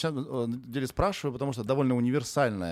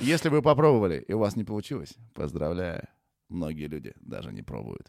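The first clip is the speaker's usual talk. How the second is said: Mike Tyson; 6 semitones lower than usual. Retold or imitated. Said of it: "Майк Тайсон, естественно, сказал".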